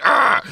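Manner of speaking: high loud frustrated roar; Hulk roar. Pretend. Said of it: "your Hulk self".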